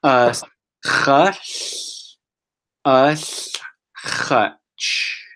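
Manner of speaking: "Us", "hush", "us", "hutch" split by clear pauses; broken into parts. Shown as a demonstration. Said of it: "I'm gonna say it one more time".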